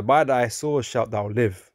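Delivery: slow, solemn verse reading; scripture reading. Acted. Reading Esau's blessing to the listener, slow and solemn. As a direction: read it out like holy writ.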